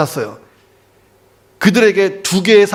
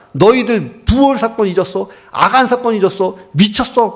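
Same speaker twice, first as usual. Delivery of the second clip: angry accusation; 4 semitones higher than usual. Retold or imitated. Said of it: "화가 나서 가자마자".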